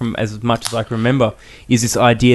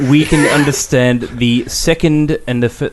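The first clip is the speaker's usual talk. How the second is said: put-on South African accent. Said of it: "you have to do the accent".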